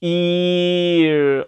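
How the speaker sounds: very drawn-out "일", ee sliding into a resonant R. Shown as a demonstration. Teacher shows a clearer R, long resonant "일". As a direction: hold "일" and let the R ring further back. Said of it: "소리를 조금 더".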